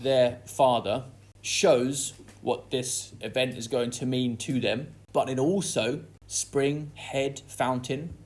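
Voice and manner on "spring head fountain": each word weighed slowly, one by one; slow stressed words. Shown as a demonstration. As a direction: lean on every word slowly. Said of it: "suggests a kind of excitement".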